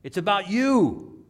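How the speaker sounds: high-pitched, emphatic divine rebuke; the Lord correcting Peter. Acted. The Lord answering Peter's question about others, emphatic correction. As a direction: call it out high, drawing out the words. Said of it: "The Lord says".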